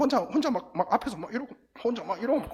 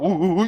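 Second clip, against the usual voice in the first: imitated whimper; 3 dB louder than usual. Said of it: "이러니까".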